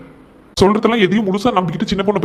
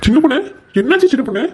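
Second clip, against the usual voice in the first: higher, alarmed concern; worried calling; 6 semitones higher than usual. Acted. Husband finding his crying wife, higher and worried. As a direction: rush in asking why she is crying.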